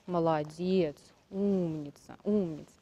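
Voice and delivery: soft praise to a horse; soothing praise. Real, not acted. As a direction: coo gently at the horse.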